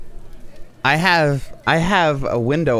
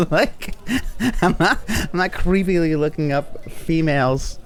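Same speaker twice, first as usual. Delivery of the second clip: higher, giggly protest of innocence; laughing denial; 4 semitones higher than usual. Real, not acted. Streamer laughingly denying to chat any creepy browsing, laughing denial.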